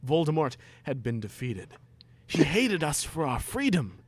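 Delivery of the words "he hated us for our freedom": lightly voiced earnest Ron. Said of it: "Ron said".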